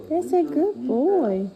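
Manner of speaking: drawn-out slow praise to the dog. Real, not acted. Owner praising her dog for lying down, slow and drawn out. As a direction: stretch the praise out warmly.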